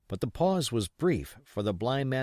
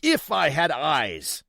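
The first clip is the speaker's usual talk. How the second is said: high, loud and slow lament; anguished cry; 6 semitones higher, 6 dB louder, slower than usual. Acted. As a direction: cry the wish bitterly. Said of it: "he cried".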